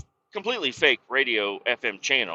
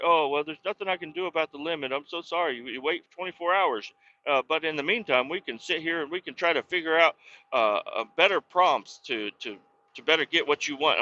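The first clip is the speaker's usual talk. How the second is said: mock apologetic bot; 4 semitones higher, faster than usual. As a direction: play the AI fake-sorry and helpful. Voicing ChatGPT apologizing.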